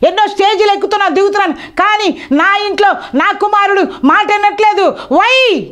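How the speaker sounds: high, impassioned sermon voice rising to a shout; fervent pulpit lament; preaching at full force. Acted. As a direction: preach it out over the congregation.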